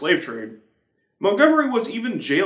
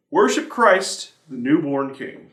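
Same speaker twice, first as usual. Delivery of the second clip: slow, solemn reading of a hymn verse; hymn recitation. Acted. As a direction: lift the words like a carol.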